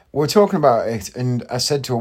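ordinary delivery

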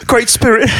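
high, hammed-up serious actor as Scrooge; Michael Caine. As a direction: overact solemnly to a puppet. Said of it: "he is a serious actor".

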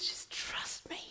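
soft whisper of God; gentle unvoiced whisper; whispered reassurance. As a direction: hush it, tender and close. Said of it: "he says".

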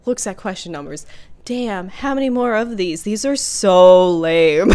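lightly acted weary quiz-taker; in character. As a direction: read the stage direction, then mildly act it. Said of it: "So, in character".

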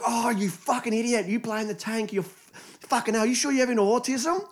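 squeaky mocking impression of a rude teenager; mocking teen gamer. Twelve-year-old gamer abusing his tank player, high squeaky kid voice.

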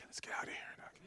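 unvoiced getaway whisper; sneaky whisper. Servants whisper to each other as they slip away. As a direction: hiss the exit plan.

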